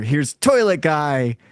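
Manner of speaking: announcing toilet guy. Retold or imitated. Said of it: "I switch to another character".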